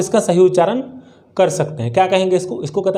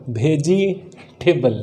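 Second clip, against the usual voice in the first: slow syllable by syllable; much slower than usual. Shown as a demonstration. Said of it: "अगर phonetics पता होगा तो देख सकते हैं".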